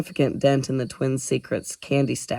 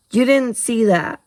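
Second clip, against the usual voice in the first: sweetly innocent, louder; mock innocent; 9 semitones higher, 6 dB louder than usual. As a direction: play innocent. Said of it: "most innocent face".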